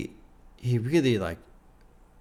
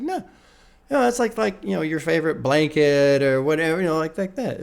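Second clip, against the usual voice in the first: higher mock wife, hurried; imitating wife explaining; 3 semitones higher, 3 dB louder than usual. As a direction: lightly act the wife explaining it to her husband. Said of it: "she's like".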